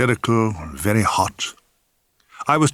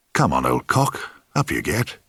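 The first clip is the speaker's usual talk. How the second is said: lower, coaxing murmur; 8 semitones lower, 3 dB quieter than usual. A narrator's reading. Bloke coaxing his member up before the lads, low coaxing. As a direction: coax it gently, like a pet.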